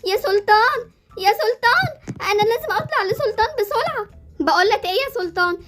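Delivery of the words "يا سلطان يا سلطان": calling out Sultan, rising. Acted. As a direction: call for your brother across the house. Calling brother. (بتنادي على أخوها بصوت عالي)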